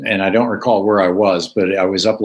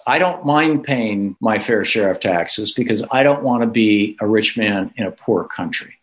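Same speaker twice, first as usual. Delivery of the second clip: slow measured reply. Retold or imitated. Businessman answering the young reporter, slow and deliberate. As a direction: let each word land after a long beat. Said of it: "looks at this kid and says".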